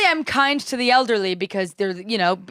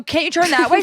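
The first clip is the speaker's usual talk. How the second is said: exasperated plea; 7 semitones higher, 3 dB louder than usual. Retold or imitated. Retelling own plea to stranger.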